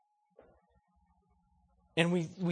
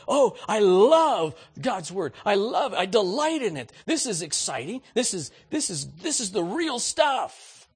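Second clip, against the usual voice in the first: mock delight; 3 semitones higher, 4 dB louder than usual. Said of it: "we can go back and we say".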